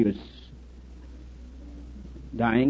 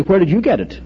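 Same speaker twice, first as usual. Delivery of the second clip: bold challenge, raised and louder; rather boldly; 4 semitones higher, 5 dB louder than usual. Retold or imitated. Irishman challenging the duke's property claim, boldly. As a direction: question him with mild cheek. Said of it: "The Irishman said rather boldly".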